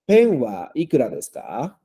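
"¿Pen wa ikura desu ka?" clear with rising end; model for repetition. Shown as a demonstration. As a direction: say it clearly for students to repeat. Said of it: "kurikaeshite kudasai". (modelo claro para que repitan "¿Pen wa ikura desu ka?")

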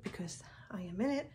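playful whispered aside; whispering. Real, not acted. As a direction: whisper it like a secret. Playful aside about vacay mode.

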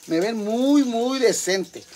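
"muy, muy" drawn out high and slow; emphatic muy. Real, not acted. Telling viewers how decent she looks, emphatic "muy, muy". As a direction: stretch and lift each "muy" for emphasis. Repeats it, doubling the word muy.

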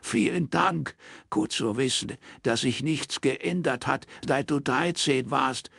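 slow, bitter sarcasm from the daughter. Acted. Daughter answering her father with slow bitter sarcasm. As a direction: drag out the sour thank-you.

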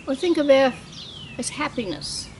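measured poetry recital, phrase by phrase; poem reading. Acted. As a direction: read it as a poem, pausing at line breaks. Poet reads own poem aloud.

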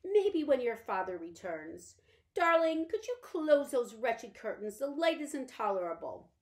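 a faded lady giving orders; languid invalid mother. Acted. Mother asks for curtains closed.

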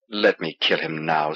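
low, harsh mutter. Acted. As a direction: mutter it low with a hard edge. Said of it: "Sleet muttered harshly".

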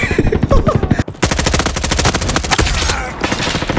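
long, breathy high laugh; high-pitched laugh. Real, not acted. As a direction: panicky laugh while fleeing. Panicking as team dies.

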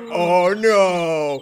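oh no through a laugh; laughing mock dismay. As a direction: let the laugh spill into it. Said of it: "Santa's like".

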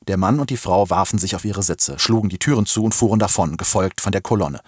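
plain reading voice

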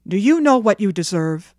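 loud scolding father; stern. Acted. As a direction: confront the child with firm authority. Father threatens a whipping.

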